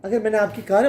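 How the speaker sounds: normal talking voice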